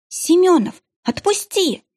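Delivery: high, desperate plea to let go; begging. A narrator's reading. Dragged by her boyfriend, she begs him to let go: high, desperate plea. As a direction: beg him to let go, voice jumping up. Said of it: "умоляла я".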